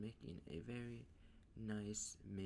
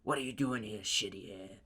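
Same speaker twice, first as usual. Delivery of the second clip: loud, raised, confrontational yell; Bakugo; 11 dB louder than usual. Acted. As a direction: yell it like an aggressive rival. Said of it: "Bakugo runs up to Deku".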